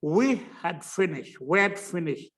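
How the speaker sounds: we had finished run together; slow then linked. Shown as a demonstration. Teacher modelling linked weak form. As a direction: link we had finished in one breath. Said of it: "इकट्ठा बोले इसको".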